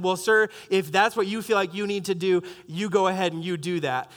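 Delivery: measured, restrained courtesy; firm yet respectful, slightly subdued; stern but polite. Retold or imitated. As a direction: politely stand your ground. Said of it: "I wanted to be stern but polite".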